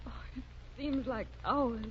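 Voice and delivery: hushed and worried, almost no voice; anxious whisper. Acted. Wife whispering anxiously outside the sickroom door. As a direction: breathe it out while waiting for news.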